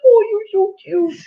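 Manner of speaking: mock cooing at herself, high pitched; self-admiring gush. Wife imitates what coworkers think she says, gushing. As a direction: imitate someone adoring their own picture. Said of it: "they're probably back there thinking".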